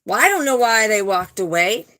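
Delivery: imitating someone playing the victim, pitch leaping at the start; lightly mock a put-upon innocent; mock victim act. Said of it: "trying to play victim mode".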